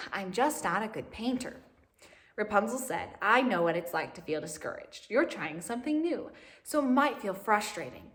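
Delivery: lively storybook reading voice with lifted character lines; animated read-aloud for young listeners; reading to children. A narrator's reading. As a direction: read it like a picture book to a class.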